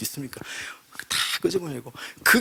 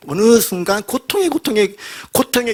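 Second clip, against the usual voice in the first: louder and slowed, dwelling on the pain; 7 semitones higher, 5 dB louder than usual. Acted. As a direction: stretch the word out in pain. Describing the animal's agony.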